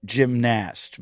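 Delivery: gymnast as "jim-NAST"; full "nast" ending on gymnast; alternative pronunciation. Acted. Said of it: "supposed to call it".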